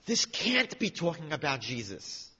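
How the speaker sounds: slow, stunned retelling; gasping disbelief. Retold or imitated. Woman realises the verse's meaning, in gasping disbelief. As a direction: say it as if the truth just hit you. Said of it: "she gasped".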